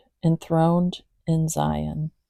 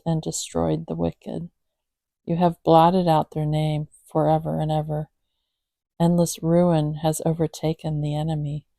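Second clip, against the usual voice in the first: measured, even psalm reading with pauses; scripture reading. A narrator's reading. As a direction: read the psalm aloud, steadily and reverently. Reads a psalm aloud to cats.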